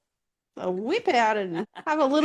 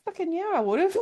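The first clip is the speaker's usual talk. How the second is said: enthusiastic yes; 10 semitones higher than usual. Pretend. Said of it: "I'm gonna put my hand up and say".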